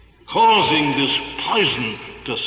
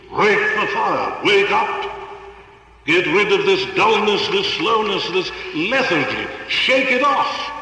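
rousing exhortation; 4 semitones higher than usual. Acted. Preacher exhorting hearers to wake.

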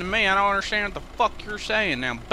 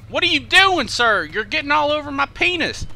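shouting; 5 semitones higher than usual. Acted. Cop yelling at suspect.

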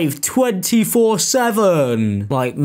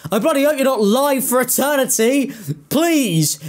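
horrified outburst; 8 semitones higher than usual. Real, not acted.

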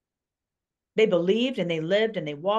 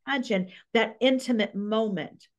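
choked up, higher and tearful; teary; 4 semitones higher, faster than usual. Real, not acted. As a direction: speak through welling tears. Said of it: "I got all teary".

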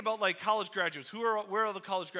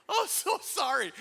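awkward sorry; 8 semitones higher, 4 dB louder than usual. Retold or imitated. Realising she was his neighbor.

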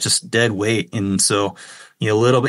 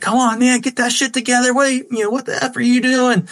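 impatient captain; 14 semitones higher than usual. Retold or imitated. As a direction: bark it like an annoyed boat captain. Captain yelling at him mid-fight.

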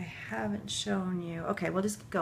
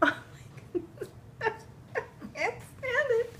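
high squeal after a laugh; giddy, high-pitched gush; overwhelmed by cuteness. Real, not acted. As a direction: squeak it out, overcome with delight.

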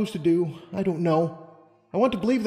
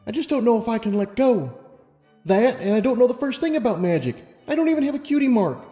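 anxious self-doubt; 11 semitones higher than usual. Acted. Lumina confessing her self-doubt.

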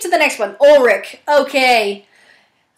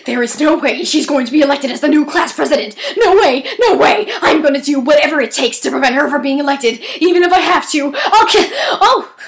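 put-on mean girl character. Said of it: "Why am I turning into Princess Amber".

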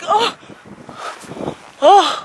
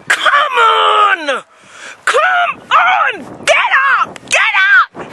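frustrated sideline dad yelling; exasperated yelling; 2 semitones higher, slower than usual. Acted. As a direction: shout it across the pitch at your son. Yelling at son on pitch.

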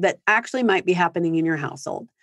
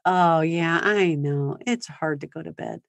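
empathetic parent. Shown as a demonstration. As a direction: comfort a tired child at bedtime. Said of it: "you can also give empathy".

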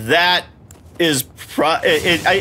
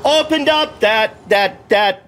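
real frustrated shout; 8 semitones higher, slower than usual. Real, not acted. Boss repeats the same move.

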